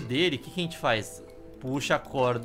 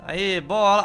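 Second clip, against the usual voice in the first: excited shout; 4 semitones higher, 6 dB louder, slower than usual. Real, not acted. Excited at getting the ball.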